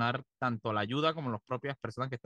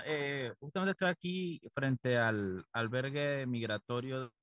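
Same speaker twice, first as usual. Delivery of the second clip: choppy, breaking-up phone line; call dropping out; slower than usual. Real, not acted. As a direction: voice freezing on a bad connection. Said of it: "Te friseaste".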